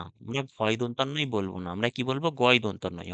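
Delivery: normal talking voice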